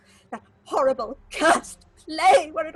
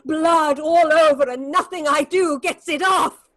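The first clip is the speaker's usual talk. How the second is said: frantic; 2 semitones higher, 6 dB louder than usual. Acted. Marlena to Edmund about blood on her hands, frantic and loud.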